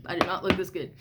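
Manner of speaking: holding back real tears while talking; crying. Real, not acted. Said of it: "kinda how I am now".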